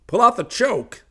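loud high preacher voice; advising preacher. Acted. Ani J advising Hayes on the car, loud and high. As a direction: call out the advice. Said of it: "Ani J advised".

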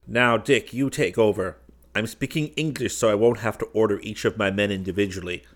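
lightly voiced ally giving urgent battle orders; brisk, insistent command in character; commanding Dunark. Dunark briefing Dick before they storm the roof, lightly voiced command.

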